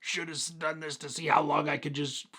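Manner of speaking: squeezed out on one held breath; holding breath. Real, not acted. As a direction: talk through a held breath until air runs out. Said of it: "I'm talking really weird like this".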